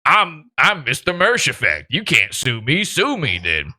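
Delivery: lightly voiced smug defiance; mocking Mersh. Host imitating Mersh daring the lawyer, lightly mocking smug defiance. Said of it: "Mersh is on the episode going".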